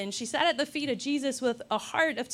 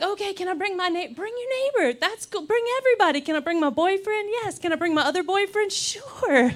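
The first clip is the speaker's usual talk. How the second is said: eager back-and-forth; 6 semitones higher than usual. Retold or imitated. Relatives asking, her agreeing.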